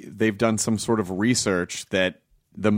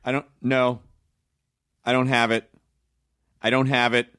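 yelling at phone menu; 3 semitones higher than usual. Retold or imitated. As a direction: escalate until you scream representative. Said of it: "I'm screaming at the automated voice".

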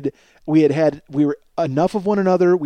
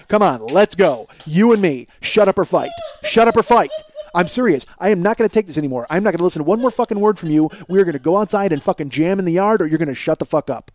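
louder, heated challenge, pitch raised; fired-up challenge; 3 semitones higher, 4 dB louder than usual. Acted. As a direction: egg him on to step outside. Acting out fight challenge.

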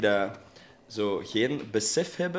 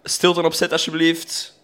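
raised, louder announcement; regieassistent op set; 4 semitones higher, 6 dB louder, slower than usual. Retold or imitated. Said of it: "die zegt zo van". (luid om stilte vragen)

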